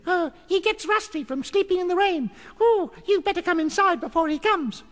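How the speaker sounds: very high, piping goblin voice; tree goblin. A narrator's reading. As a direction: warn them as a tiny goblin.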